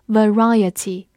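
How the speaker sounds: "variety" stressed on the second syllable, va-RI-ety. Shown as a demonstration. Teacher shows word stress to learners, "variety" stressed on RI. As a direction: put the weight on RI in "variety". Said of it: "重音放在第二个音上面".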